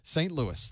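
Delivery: LOUIS settled as "LOO-iss"; LOUIS stressed on the first syllable, ending "iss"; corrected pronunciation. Shown as a demonstration. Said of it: "Gotta get it straight".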